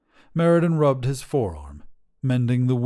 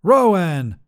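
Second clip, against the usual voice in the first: loud, higher, furious "Rowan!"; angry scolding; 8 semitones higher, 9 dB louder than usual. Acted. Wizard rebukes his dragon, loud and angry. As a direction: bark the name in rebuke.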